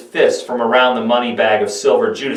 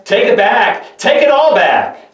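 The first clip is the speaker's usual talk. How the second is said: much higher, louder frantic cry; desperate shout; 10 semitones higher, 5 dB louder than usual. Acted. Judas shouting at the priests who paid him, desperate shout. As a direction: hurl it back at them in panic. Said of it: "Judas shouted at the men".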